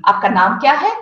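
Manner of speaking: "Aapka naam kya hai" rising at the end; mother-tongue intonation. Shown as a demonstration. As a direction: ask it with the tune climbing to "hai". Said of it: "as I would ask in my mother tongue".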